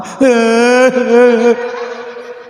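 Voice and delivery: long hammed-up wail; drawn-out fake sob; mock crying. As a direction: bawl like a child, played for fun. Child cries after answering.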